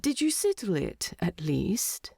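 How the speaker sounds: half-awake curiosity trailing off; drowsy whispered ask; sleepy question. Acted. Sleepy Bilbo asking.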